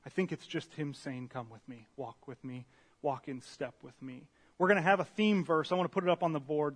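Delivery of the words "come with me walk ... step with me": soft, lowered, tender voice; gentle invitation. Retold or imitated. Speaker voicing a companion's call to walk along, gentle. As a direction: quietly invite the listener along.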